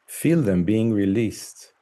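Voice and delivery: calm, measured meditation voice with long pauses; guided meditation. Acted. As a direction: guide the listener gently, phrase by phrase, leaving space.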